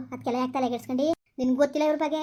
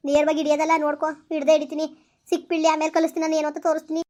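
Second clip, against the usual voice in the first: louder, determined threat; wife's louder angry vow to catch her husband; 5 dB louder than usual. Acted. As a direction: swear you'll catch him red-handed. Wife vows to catch husband.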